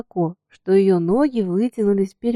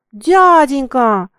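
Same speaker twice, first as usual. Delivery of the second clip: slow, drawn-out, louder worried cry; anxious plea; 4 semitones higher, 7 dB louder, much slower than usual. A narrator's reading. Girl to the coachman, anxious drawn-out plea. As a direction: call out to him in alarm. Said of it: "заволновалась девочка".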